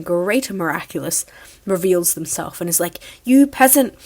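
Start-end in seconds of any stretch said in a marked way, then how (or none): 3.2-3.9 higher, louder lordly sneer; haughty scorn. Retold or imitated. The great miraculous sneering down at Gabe. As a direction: look down on him like a peasant.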